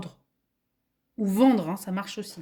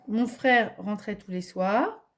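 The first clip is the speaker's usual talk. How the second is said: slow dictation; slower than usual. Shown as a demonstration. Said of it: "Vous me dites ce que c'est".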